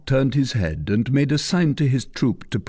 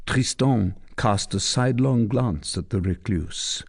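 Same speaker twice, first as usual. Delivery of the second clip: ordinary delivery, nothing marked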